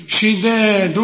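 شداد slow, every letter kept light; light recitation. Shown as a demonstration. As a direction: keep شداد thin and slow. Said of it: "شداد كل الكلمة مرققة". (شداد مرققة ببطء)

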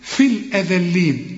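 "الأذلين" with a clear interdental dh, tongue between the teeth; tongue out for dhal. Shown as a demonstration. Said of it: "طلع لسانك في الإيه؟ في الذال".

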